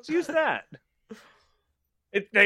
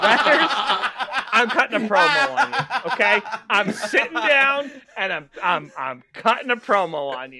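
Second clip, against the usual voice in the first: wrestling promo; 3 dB louder than usual. Retold or imitated. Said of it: "I'm gonna cut a promo".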